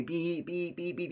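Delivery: high-pitched beeps in a row; insistent mock horn beeps; imitated repeated honking. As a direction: mimic a car horn honked over and over. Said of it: "it was, like, a quick honk".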